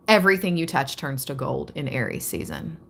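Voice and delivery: quick, excited reading. Real, not acted. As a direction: rush through it buzzing with energy. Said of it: "That's why I'm talking faster and faster".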